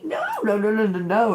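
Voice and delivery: high no, then a firm run of nos; emphatic refusal. Real, not acted. Refusing to be the dumping ground, emphatic no no no. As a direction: shut it down flatly.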